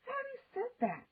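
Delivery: fast, high impatient retort; exasperated. A narrator's reading. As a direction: snap back impatiently. Annoyed sister repeats.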